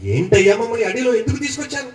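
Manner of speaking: mock complaint, pitch climbing item by item; imitated grumbling. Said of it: "దేవుడి మీదే సణుగుతున్నట్టు". (సణుగుతున్న జనాన్ని అనుకరిస్తూ ఫిర్యాదు)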